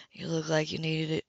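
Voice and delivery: soft, low murmur; murmured softly to her. A narrator's reading. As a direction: say it low and close, just for her. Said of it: "he murmured".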